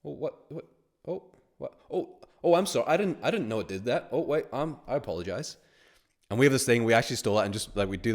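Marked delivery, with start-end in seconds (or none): 0.0-5.6 high, panicky mock apology; hammed-up flustered backpedalling. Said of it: "And then he's like".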